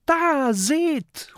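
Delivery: very high cry of warning; high-pitched alarmed shout; alarmed call. A narrator's reading. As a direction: call out high to alert the others. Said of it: "ruft Mathilda".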